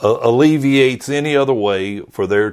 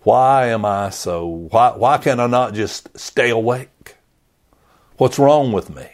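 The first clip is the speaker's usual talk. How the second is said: mild, acted exasperation; frustrated with himself; 2 semitones higher than usual. Preacher imagining Peter after falling asleep, frustrated with himself. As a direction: question yourself in baffled frustration. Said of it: "I can only imagine Peter's frustration with himself".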